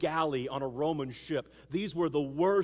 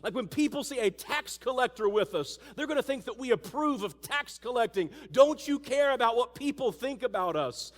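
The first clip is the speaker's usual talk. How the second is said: indignant disciples; 7 semitones higher, 4 dB louder than usual. Retold or imitated. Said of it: "the other disciples have to be thinking".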